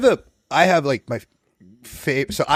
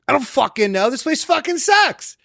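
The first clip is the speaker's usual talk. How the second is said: mock grumpy rant; 11 semitones higher than usual. Retold grumpy outburst at Sandler.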